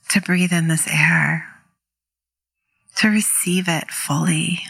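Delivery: calm meditation guide, unhurried with long pauses; guided meditation. Real, not acted. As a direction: gently lead listeners into stillness, leaving space between phrases.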